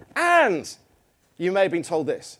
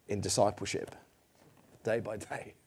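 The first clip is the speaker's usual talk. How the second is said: ordinary talk, nothing marked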